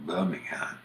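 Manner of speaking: local Alabama accent, softened first syllable in Birmingham. Shown as a demonstration. Showing how locals would say it, Alabama accent. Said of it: "if you're from Alabama".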